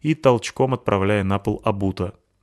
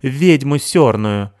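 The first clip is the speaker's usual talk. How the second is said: put-on accented yell; 5 semitones higher, 7 dB louder, much slower than usual. Сыкиль кричит из угла.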